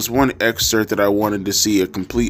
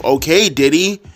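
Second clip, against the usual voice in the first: sarcastic aside; 6 semitones higher, 3 dB louder than usual. Real, not acted.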